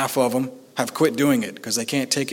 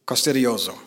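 Greek word with an Italian lilt; Italian accent. Shown as a demonstration. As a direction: say it like an Italian, lightly. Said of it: "I say that with an Italian accent".

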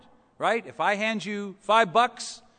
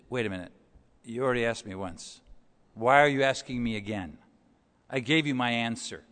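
a lower, exasperated voice for God; impatient God; 6 semitones lower than usual. Retold or imitated. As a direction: play God, fed up at being asked twice. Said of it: "I know I would have said".

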